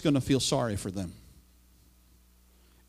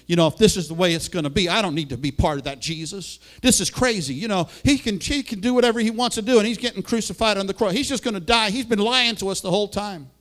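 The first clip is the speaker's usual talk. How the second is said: offended Peter; 4 semitones higher, faster than usual. Retold or imitated. Peter's grumbling voiced by preacher.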